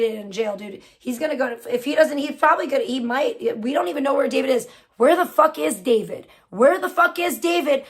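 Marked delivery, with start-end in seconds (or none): 5.0-7.8 loud exasperated question, rising heat; venting real outrage at the chat; angry demand. Real, not acted. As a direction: demand it, fed up and furious.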